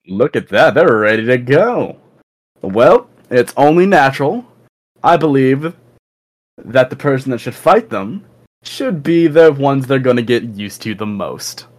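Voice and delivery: lightly voiced captain weighing up recruits; a hint of a taunting ringleader, lilting phrases; squad captain. Captain picks who should fight the newcomers, lightly voiced taunt.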